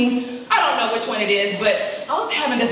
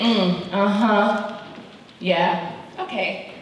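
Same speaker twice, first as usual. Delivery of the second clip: mother's little voice; 2 semitones lower, much slower than usual. Retold or imitated. Mother brushing off her daughter's boasts, murmuring. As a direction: murmur it, barely interested. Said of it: "continued in that little voice".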